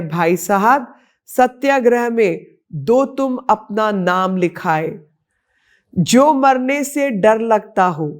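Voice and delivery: measured verse recital, pitch lifted above plain speech; patriotic poem recitation. Acted. Woman reciting a once-banned poem honouring India's women, declaimed in verse. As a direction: recite it line by line in a rhythmic verse cadence.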